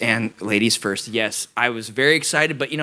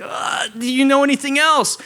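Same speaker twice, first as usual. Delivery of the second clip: impatient eagerness; 4 dB louder than usual. Retold or imitated.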